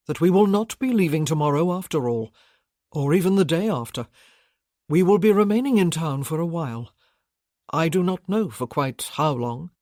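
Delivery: steady bridegroom addressing the family; Gabriel voiced. Gabriel announces change of plans.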